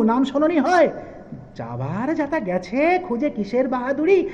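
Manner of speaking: theatrical, swinging rhymed delivery; comic poem recitation. Acted. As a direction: play both poets in a lilting recital. Continues the comic poem to its end.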